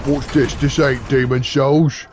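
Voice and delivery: a lightly voiced GTF, slow and puzzled; half-hearted mock of a bored viewer; mild mocking GTF voice; GTF impression. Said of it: "That's what G T F sounds like".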